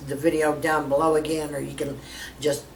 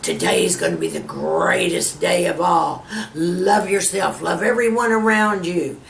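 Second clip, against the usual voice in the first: mirror self-love; 3 semitones higher than usual. Retold or imitated. The speaker showing viewers how she flirts with her mirror. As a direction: blow kisses and gush at your reflection. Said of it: "I get in the mirror going".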